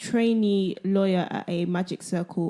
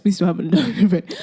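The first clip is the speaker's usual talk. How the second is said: laughing; faster than usual. Real, not acted. Host laughing at own group.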